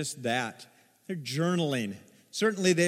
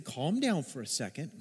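calming; 5 dB quieter than usual. Retold or imitated. Adult soothing a crying toddler.

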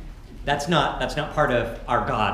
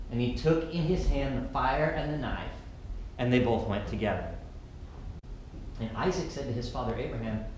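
scripture reading. Acted. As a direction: read the passage gently to the congregation. Reads the scripture passage.

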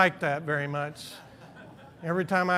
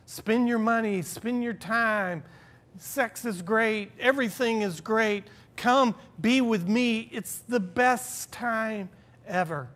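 mock alluring pitch; 4 semitones higher than usual. The world tempting people with pleasure, mock enticing. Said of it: "They paint it all to be like the best thing".

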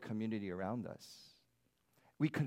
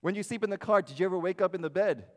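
put-on high, louder voice for small children; talking to preschoolers; 7 semitones higher, 7 dB louder than usual. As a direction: ask it like a cheerful preschool teacher. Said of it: "I share this with the preschool".

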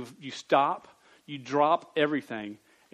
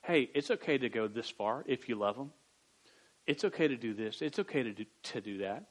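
tempting inner voice; 4 semitones lower, 7 dB quieter than usual. Retold or imitated. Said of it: "a voice in your head just goes".

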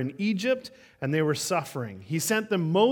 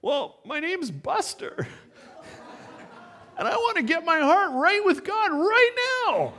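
put-on tearful little boy; 12 semitones higher than usual. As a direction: play the weeping little boy, high and wobbly. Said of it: "through his tearful ears".

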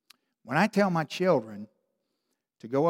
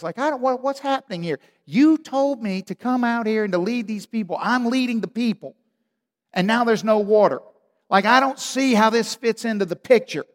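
Moses pleading; 6 semitones higher than usual. Retold or imitated. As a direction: plead with the Lord, at your wits' end. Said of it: "They're like".

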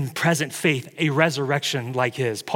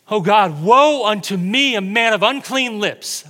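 Isaiah's lament; 5 semitones higher, 4 dB louder than usual. Retold or imitated. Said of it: "Isaiah said".

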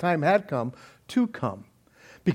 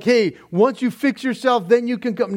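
higher-pitched imagined quote; mock conditional invitation; 4 semitones higher than usual. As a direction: voice the conditions he never set. Voices the invitation not being given.

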